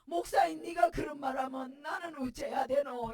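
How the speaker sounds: loud exasperated retort; husband answers his pastor wife, loud and exasperated; husband's retort. Retold or imitated. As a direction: throw the question back hard. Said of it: "우리 남편 하는 말".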